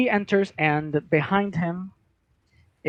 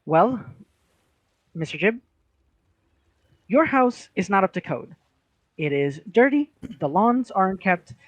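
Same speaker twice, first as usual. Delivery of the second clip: officious clerk; 3 semitones higher than usual. Acted. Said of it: "She goes".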